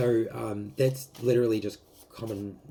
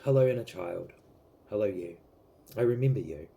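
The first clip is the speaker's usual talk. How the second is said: tender self-talk; 2 semitones lower, 3 dB quieter than usual. Shown as a demonstration. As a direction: gently comfort the child inside you. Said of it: "I want you to go".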